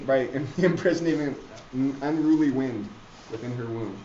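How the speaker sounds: stagey Shakespeare read-aloud; dramatic reading. Acted. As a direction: declaim it with relish, building to a laugh. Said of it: "And he says".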